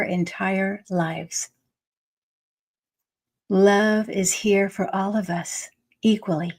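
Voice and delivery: measured read-aloud with deliberate pauses; inspirational reading. Acted. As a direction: read it out phrase by phrase as a message. Reads from the card deck.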